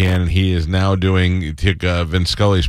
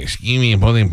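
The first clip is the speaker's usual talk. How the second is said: put-on Mexican accent. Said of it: "if you get Mexican".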